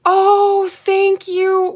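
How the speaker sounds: loud, high, delighted thank you; excited thanks. Real, not acted. Thanking a viewer for the comment, loud and delighted. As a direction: gush your thanks.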